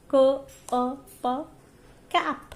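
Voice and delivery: k, a, p run close together into cap; teacher blends sounds into one word; blended quickly. Shown as a demonstration. Teacher demonstrates blending to pupils, sounds run together. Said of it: "this is blending".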